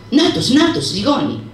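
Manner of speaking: high, sudden cry of "νάτος, νάτος"; frightened cry. Acted. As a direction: point and cry out in fear. Efentina frightening the Turks. (φοβισμένη κραυγή «νάτος, νάτος»)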